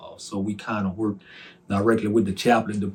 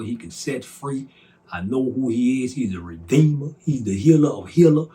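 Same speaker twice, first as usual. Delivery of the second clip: rebuking the enemy; 4 dB louder than usual. Retold or imitated. Rebuking Satan after the dream.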